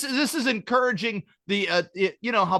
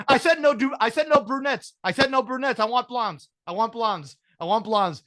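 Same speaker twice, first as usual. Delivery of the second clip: high, petulant insisting, fading to plain; insistent demand; 3 semitones higher than usual. Retold or imitated. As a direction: repeat the demand like a spoiled kid, calming down by the end. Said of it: "He's like".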